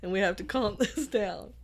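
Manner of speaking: trying not to laugh. Real, not acted. Trying to calm the giggles.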